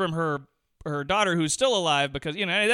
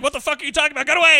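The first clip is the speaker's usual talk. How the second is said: high, loud angry yell, hammed-up; mock shout; 9 semitones higher, 7 dB louder, much faster than usual. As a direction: yell him away. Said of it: "he's like".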